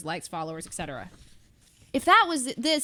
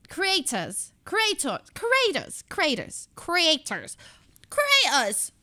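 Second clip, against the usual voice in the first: creators tried over and over in a British accent, pitch climbing higher; testing creators in British, higher each try; 5 semitones higher, much slower than usual. Shown as a demonstration. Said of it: "How would you say creators in a British accent?".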